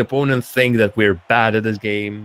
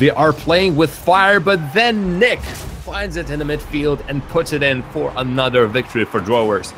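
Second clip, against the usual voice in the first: lively esports commentary, raised on the big moments; live play-by-play; 2 semitones higher than usual. Real, not acted. Caster calling a match for stream viewers, lively play-by-play. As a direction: call the action as it happens.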